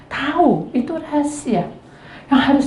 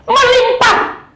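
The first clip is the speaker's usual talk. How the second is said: high, loud ringing proclamation; proclaimed; 10 semitones higher, 4 dB louder, much slower than usual. Real, not acted. Preacher proclaiming overflowing blessing, high and loud. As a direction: lift the word like a cry of praise.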